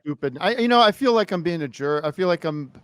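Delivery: muffled through a paper bag; talking from inside a bag; paper bag over head. Real, not acted. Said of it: "The bag plays".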